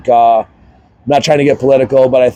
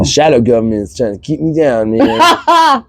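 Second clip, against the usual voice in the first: conspiracy theorist impression; 2 semitones higher than usual. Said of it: "That's my, that's my impression of a conspiracy theorist".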